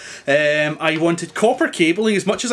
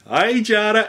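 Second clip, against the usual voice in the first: Australian accent; 3 semitones higher than usual. Shown as a demonstration. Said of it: "that's my Australian accent".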